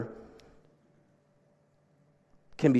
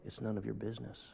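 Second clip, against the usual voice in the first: mock sassy teacher; 2 semitones lower, 16 dB quieter, faster than usual. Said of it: "Miss Raquel says something like".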